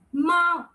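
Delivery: "ma" thrown out from a high start; fourth-tone "ma", high and thrown away; throw-out fourth tone. Shown as a demonstration. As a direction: toss "ma" out in one short push, starting high. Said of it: "I call it as throw out tone".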